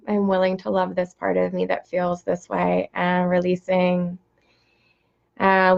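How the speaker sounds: even, measured meditation voice; steady, level invocation with unhurried pauses; guided prayer meditation. Real, not acted. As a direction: lead the circle gently through a prayer.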